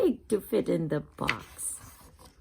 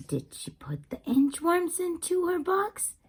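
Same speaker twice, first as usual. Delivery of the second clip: whisper; 7 semitones higher than usual. Acted. Whispered question to children.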